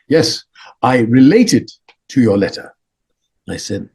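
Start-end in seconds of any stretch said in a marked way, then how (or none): 0.1-2.7 measured, emphatic words from an imitated lama; Dalai Lama. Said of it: "He goes".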